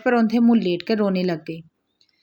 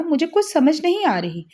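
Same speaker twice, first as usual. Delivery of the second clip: bewildered, pitched higher; puzzled; 6 semitones higher than usual. Acted. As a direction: sound honestly confused, voice rising up. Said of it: "ना समझ आने वाले अंदाज में कहा". (उलझन भरी ऊँची आवाज़ में)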